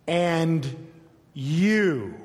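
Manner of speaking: each word set apart by a long pause; slow, deliberate "And ... you."; emphatic reading. Shown as a demonstration. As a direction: lean on AND, then on "you.". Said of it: "especially how I'm reading it".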